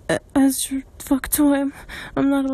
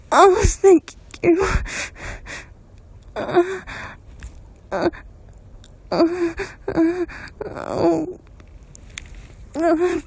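tearful gratitude; 4 semitones higher, slower than usual. Acted. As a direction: voice breaking with high sobs. Overwhelmed thanks with crying sounds.

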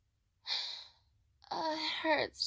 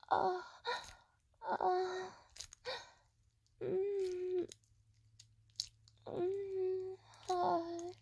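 moaning; 2 semitones higher, much slower than usual. Acted. Moaning during sex.

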